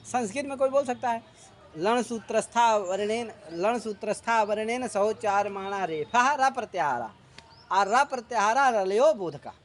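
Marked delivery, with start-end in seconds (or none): 1.8-9.5 recitation demo. Shown as a demonstration. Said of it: "ये बोलना है संस्कृत में".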